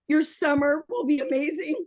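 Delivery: teary laugh in the voice; choked up, laughing through it; real emotion welling up mid-pitch; getting emotional. Real, not acted. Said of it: "gonna get emotional".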